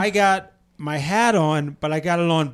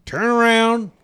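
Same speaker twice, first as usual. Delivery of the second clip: higher Southern command; pitched-up Southern drawl; put-on Southern accent; 5 semitones higher, slower than usual. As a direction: order him off in an imitated Southern accent. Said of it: "He doesn't have a Southern accent".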